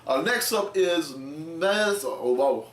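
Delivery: talking with gum in mouth; words slurred around gum; chewing gum. Real, not acted. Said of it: "I got gum in my mouth".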